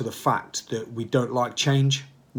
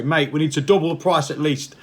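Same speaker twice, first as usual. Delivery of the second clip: joking demand; 4 semitones higher, 6 dB louder than usual. Retold or imitated. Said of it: "have a word with Rob and say".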